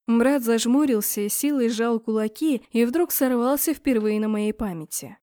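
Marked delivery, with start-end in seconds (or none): none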